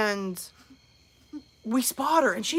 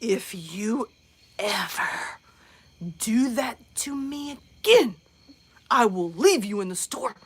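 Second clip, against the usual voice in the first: stern mom warning; 2 semitones lower, slower than usual. Retold or imitated. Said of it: "she just".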